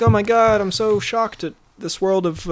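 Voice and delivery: lightly acted shocked character; mock shock. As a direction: play at being overwhelmed. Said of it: "He's good at being like".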